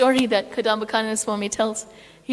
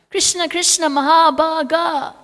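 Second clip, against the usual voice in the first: calling out; 5 semitones higher than usual. Acted. Residents calling to Krishna in the rain, calling out. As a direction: call it out high, stretching the last word. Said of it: "they call out to Krishna".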